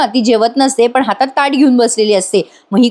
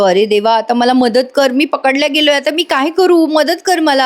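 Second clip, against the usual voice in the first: rising, comic plea to God; desperate mock panic; mild hammed-up panic; panicked prayer; 3 semitones higher than usual. Arjun caught, praying for help.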